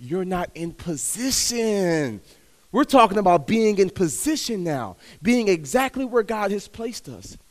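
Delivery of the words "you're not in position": slow, softer fatherly correction; a hint of a calm heavenly father; gentle fatherly God. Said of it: "He says".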